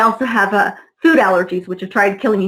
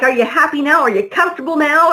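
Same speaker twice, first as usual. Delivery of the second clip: higher, mocking questions; smug taunting; 4 semitones higher than usual. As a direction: rub it in, smug guard. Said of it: "just super smug".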